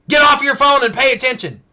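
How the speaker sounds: mock scolding. Modern paraphrase of Jesus.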